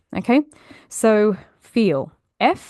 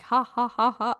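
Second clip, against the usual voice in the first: separate, deliberate ha-ha syllables, raised a little; demonstrative mock laugh; forced laughter; 4 semitones higher than usual. Shown as a demonstration. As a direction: force out a fake laugh, beat by beat. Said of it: "we're literally forcing laughs".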